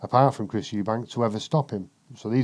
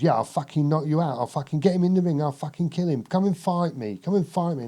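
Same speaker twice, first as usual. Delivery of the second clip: higher brash fighter's taunts, hammed up; mock Nigel Benn threats; 6 semitones higher than usual. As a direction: play a fired-up boxer daring his rival, pitched up. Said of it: "That's how he talked".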